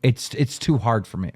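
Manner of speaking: Boogie. Retold or imitated. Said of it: "Boogie says".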